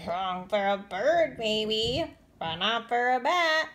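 slow, loud matter-of-fact bat; knowing bat. Acted. Bat answering Stellaluna, slow and sure. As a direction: set her straight gently.

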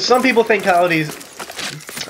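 coyotes in a Southern country accent; hick accent. Real, not acted. Southerner talking about coyotes, hick accent. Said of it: "saying that in a hick accent".

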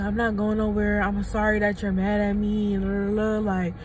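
a hint of a pleading boyfriend; mock apologetic boyfriend.

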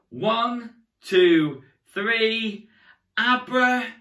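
magician leading a countdown; rally the kids into the spell; kids party magician. Acted.

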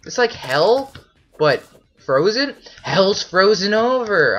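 high, loud astonished questions; can't believe what they see; loud bewildered yelps; shocked disbelief. Real, not acted. Finds red ice world.

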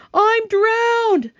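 very high, loud gasping cry; gasping old grasshopper. A narrator's reading. Old green grasshopper spitting out water, high gasping cry. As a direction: wail it like a soaked old insect. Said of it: "gasped the old green grasshopper".

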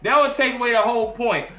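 breaking into real laughter; real amused laughing talk. Real, not acted. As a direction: crack up mid-thought, rising in pitch. Cracks up at his botched line.

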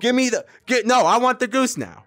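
high-pitched, stuttering grabby demands; pleading, high and insistent; urgent demanding. Real, not acted. Squabbling over a goose in game.

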